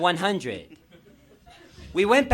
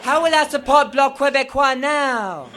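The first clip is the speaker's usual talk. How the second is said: higher, louder laughing wail; mock anguish; 7 semitones higher, 7 dB louder than usual. Fan lamenting Quebec politics, laughing wail. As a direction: cry out in hammed-up despair.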